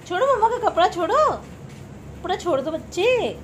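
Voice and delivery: loud motherly scolding. Real, not acted. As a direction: make him let go of the clothes. Toddler pulling mother's clothes.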